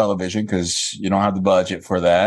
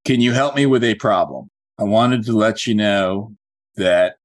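measured, deliberate script dictation; slowly, so it can be written down. Shown as a demonstration. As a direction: say it slowly for note-taking. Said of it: "I'm gonna say it slowly".

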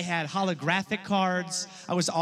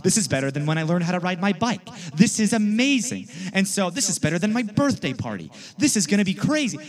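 put-on louder, rushing kid's delight; thrilled kid; 2 semitones higher, 4 dB louder than usual. Boy telling friend Clifton about the card, thrilled. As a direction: gush like the best day ever.

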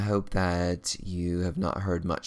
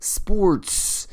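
mock radio anchor; 5 semitones higher, much slower than usual. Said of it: "think of it as a radio show".

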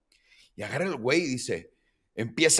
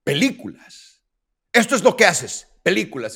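incredulous cop; 3 semitones higher, 5 dB louder than usual. Retold or imitated. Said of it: "me voltea a ver y me dice".

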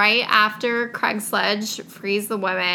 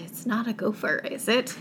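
softer, hushed reading of the line; hushed mock fright; 7 dB quieter than usual. Shown as a demonstration. Rereading a frightened character's line to her co-host, hushed. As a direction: read it as if afraid to ask. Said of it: "Yes, she shuddered".

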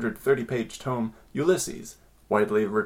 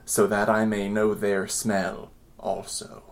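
put-on reading an old love letter in a light British accent; a lightly put-on British accent, unhurried. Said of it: "why are you giving him a British accent".

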